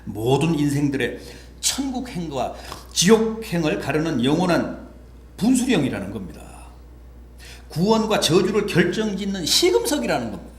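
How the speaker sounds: sermon cadence swelling to a high peak; emphatic preaching. Acted. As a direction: proclaim it firmly from the pulpit.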